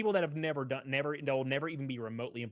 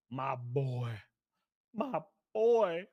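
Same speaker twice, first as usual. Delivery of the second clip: excited; much slower than usual. Real, not acted. Thanking the donor.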